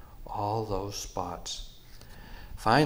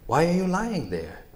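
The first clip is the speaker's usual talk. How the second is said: higher, louder little voice; small mouse voice; 9 semitones higher, 5 dB louder than usual. Acted. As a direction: squeak it out like a mouse. Mouse asks buffalo.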